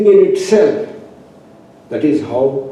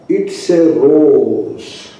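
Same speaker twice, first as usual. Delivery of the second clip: slowly, it's a rose; slow naming; much slower than usual. Shown as a demonstration. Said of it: "Then I say".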